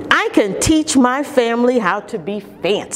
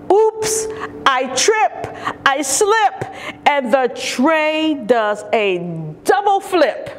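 excited sing-song; 4 semitones higher than usual. Acted. Tray falling mishap.

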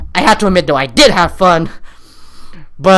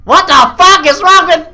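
shocked outburst; 8 semitones higher, 5 dB louder than usual. Real, not acted. Shocked reaction.

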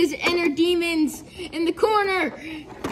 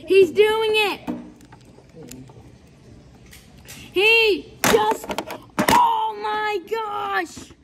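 excited ringside wrestling commentary; play-by-play commentary; 2 semitones lower than usual. Acted. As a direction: call the match live, hyped up.

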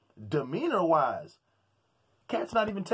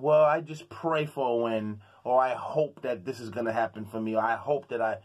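meek boxer; 7 semitones lower than usual. Retold or imitated. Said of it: "you don't even sound like a warrior".

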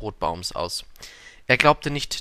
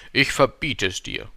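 herrisches Verbot; 2 semitones higher, 4 dB louder than usual. A narrator's reading. King forbids yawning.

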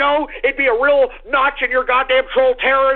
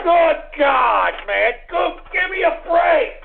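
exasperated yell; outraged shout; 4 semitones higher, slower than usual. Real, not acted. Outraged at callers' sounds.

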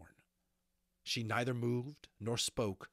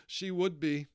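raised, loud sniffy retort; sniffing; 8 semitones higher, 7 dB louder than usual. Acted. Molly answers news of the last unicorn, sniffing. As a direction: throw it back high and bitter. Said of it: "Molly sniffed".

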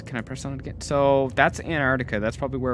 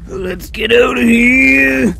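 slow, high, loud yell to flee; panicked shout; 10 semitones higher, 12 dB louder, much slower than usual. Acted. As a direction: shout at everyone to run. Collapsing ruins, fleeing.

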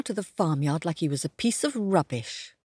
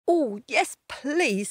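eager cat; 6 semitones higher, slower than usual. Acted. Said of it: "said Kat".

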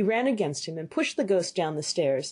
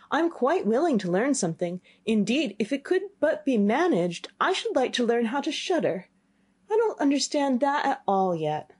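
a slightly higher, earnest youth; the simple younger son, keen to learn; lightly voiced eager boy; 6 semitones higher than usual. Boy answering his father, lightly voiced eager youth.

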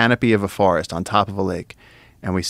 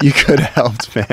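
loud, higher complaint; louder reproach; 5 semitones higher, 6 dB louder than usual. Retold or imitated. Telling JJ he could have helped, said louder. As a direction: call him out, louder. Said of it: "I was like".

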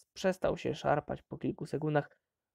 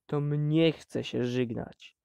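hissed; slower than usual. Acted. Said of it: "syknął Des".

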